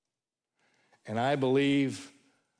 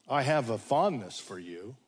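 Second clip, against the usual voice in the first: reluctant admission; 4 semitones lower than usual. Retold or imitated. Peter sidesteps Jesus's question about love.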